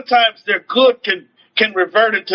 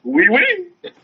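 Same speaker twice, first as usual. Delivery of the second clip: high, bright mock-French oui oui; playful French; 8 semitones higher than usual. Real, not acted. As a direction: toss it off with a grin.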